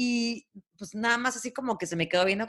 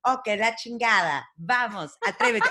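mantra; 2 semitones higher than usual. Shown as a demonstration. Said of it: "Y es".

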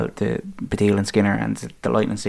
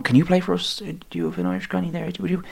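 higher, hammed-up begging, fast on the granny line; mock pleading official; 8 semitones higher, 7 dB quieter, faster than usual. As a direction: plead like a desperate recruiter. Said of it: "plucking them going".

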